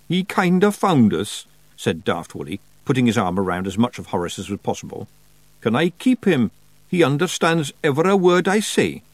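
a wee Scots pixie begging to keep a pet; Feagle voice. Acted. Feagle voice held.

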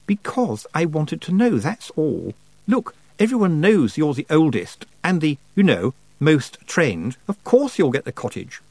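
smooth over the tension; lightly placating young witch; Lucy voiced.

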